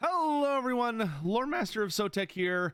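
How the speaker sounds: voice cracking, breaking up high. Lore master of sotek greeting everyone at the start: voice cracking. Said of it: "That was a nice little voice crack there".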